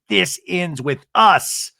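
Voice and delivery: slow, weighty dramatic line; slow, portentous reading; dramatic book title read. Retold or imitated. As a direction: say it like a grand title. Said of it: "Like Colleen Hoover".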